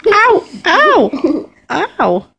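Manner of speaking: pained yelps while being squashed; ow it out as something presses on you; being squeezed hard. Real, not acted. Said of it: "you're squishing me".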